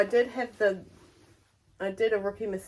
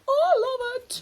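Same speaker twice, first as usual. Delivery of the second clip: high, louder gushing quote; mock-squeal of delight, pitched way up; 6 dB louder than usual. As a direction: imitate someone thrilled with a gift. Retelling Mum's excited reaction.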